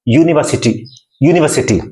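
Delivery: यूनिवर्सिटी clearly, no r sound; careful model pronunciation. Shown as a demonstration. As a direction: model यूनिवर्सिटी for students, r silent. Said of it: "How to pronounce this word?".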